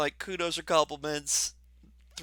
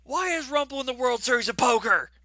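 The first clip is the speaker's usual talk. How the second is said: louder, higher incredulous outburst; mock bewilderment; 6 semitones higher, 4 dB louder than usual. Game master imagining Rumple as a card shark, mock bewilderment. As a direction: demand an explanation in mock disbelief.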